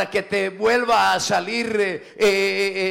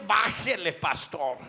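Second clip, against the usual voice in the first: much softer, lower "Bájele, pastor" as a muffled plea; pleading hush; 4 semitones lower, 7 dB quieter, slower than usual. Retold or imitated. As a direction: murmur "Bájele" like a listener begging quietly. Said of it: "con eso me están diciendo".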